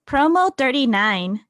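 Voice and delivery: ordinary talk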